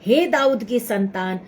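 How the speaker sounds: soft plea ending in a whisper; a cry told as a whisper; retold cry. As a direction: say it hushed, nearly whispered. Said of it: "और भी चिल्लाने लगा".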